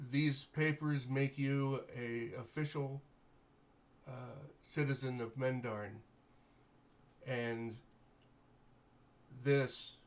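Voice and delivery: lightly voiced noble lord, grateful and formal; gracious baron. Baron thanking the heroes for rescuing his daughter, lightly voiced noble. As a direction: thank them with stately warmth.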